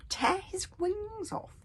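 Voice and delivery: high slow whispered howl; dragon taunt. Acted. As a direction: howl it spitefully. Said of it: "howled Fireworm".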